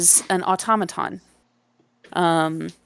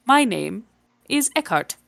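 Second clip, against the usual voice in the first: robot voice; 4 semitones higher than usual. Acted. GM voices the automaton.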